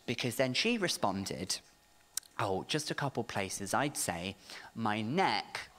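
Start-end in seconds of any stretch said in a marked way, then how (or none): 2.4-5.7 put-on pained old lady. Old lady lists her pains.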